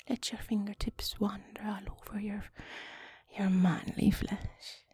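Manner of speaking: slow, seductive whisper; slow it right down and breathe it out; sexy whisper. Pretend. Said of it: "trying to be sexy now".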